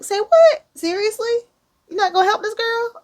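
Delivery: high, loud, fast shocked outrage; incredulous shriek at a guy who won't help; outraged disbelief. Retold or imitated. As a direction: squawk it like you can't believe he refused. Narrator and friend outraged.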